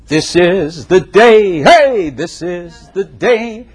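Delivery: drawn out slowly, savoring every word; joyful morning shout. Acted. Believer springing out of bed to greet the day, joyful. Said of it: "bound out of bed".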